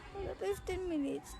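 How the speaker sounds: high, slow disbelief at fifteen; can't believe it, drawn out; disbelieving. Real, not acted. Disbelief at climb time.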